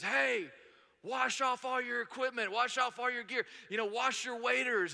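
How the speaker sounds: high-pitched imitation of a man yelling; mock yelling. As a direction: call it out like a stranger across a parking lot. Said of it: "starts yelling at us".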